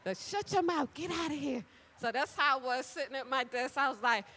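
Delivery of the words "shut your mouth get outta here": playful disbelief. Shown as a demonstration. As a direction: drag it out in fun disbelief. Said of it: "You gotta say it back to back".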